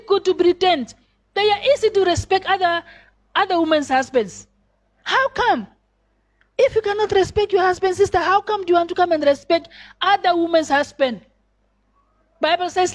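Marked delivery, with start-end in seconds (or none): 5.0-11.3 incredulous rebuke. Real, not acted. Preacher rebuking sisters, high.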